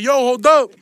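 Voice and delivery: sudden loud hold up; loud call to stop. Retold or imitated. Stopping homie hitting pregnant woman.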